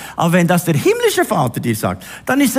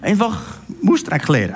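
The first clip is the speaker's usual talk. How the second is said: Swiss German dialect. Shown as a demonstration. Preacher first gives the Swiss German words, Swiss German accent. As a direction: say "Mustreck leer" in broad Swiss German dialect. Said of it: "Kann man das auch hochdeutsch sagen?".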